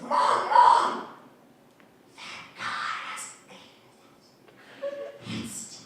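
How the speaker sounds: put-on excited child yelling at the market; mock kid shouting then hushed; kid calling mom. Kid tugging mom's coat, calls out then hushes. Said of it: "he's like".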